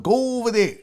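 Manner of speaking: badly faked accent, rude waiter; brusque server in a silly accent; Vinny Barbarino. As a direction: send them off in a clumsy put-on accent. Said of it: "I sound like a weird Vinny Barbarino".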